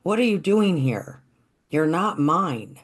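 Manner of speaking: put-on boy shooing a donkey, mild yell. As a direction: snap at the stubborn donkey, not full force. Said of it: "kinda yells at the donkey".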